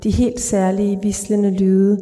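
calm, even literary read-aloud; measured reading of a dark short story. A narrator's reading. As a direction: read the story steadily to the listener. Author reads her short story aloud.

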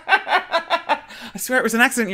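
high voice breaking into laughter; laughing mock plea. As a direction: protest innocence while cracking up.

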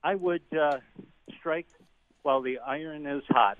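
winded caller, breathy pauses; breathless from carrying groceries upstairs; out of breath. Real, not acted. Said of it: "I'm sorry I'm out of breath".

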